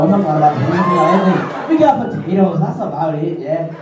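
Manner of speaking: mock Irish accent.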